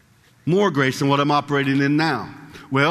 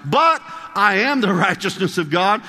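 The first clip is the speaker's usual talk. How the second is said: rising proclamation; 6 semitones higher, slower than usual. Real, not acted. Preacher proclaiming identity in Christ.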